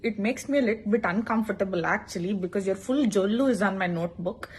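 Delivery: soft, overly formal request; politely complain, a touch passive-aggressive; mock polite. Student politely complaining to teacher about spit, soft.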